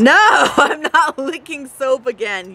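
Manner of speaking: laughing slow protest. Real, not acted. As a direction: laugh through the refusal. Laughs at mom's teasing.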